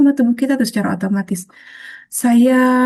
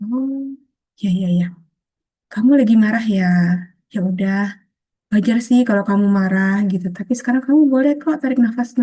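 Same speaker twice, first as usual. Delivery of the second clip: gentle, calming voice to oneself; soothing self-talk. Acted. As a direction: talk yourself down like a kind friend. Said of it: "Kita tenangkan diri kita".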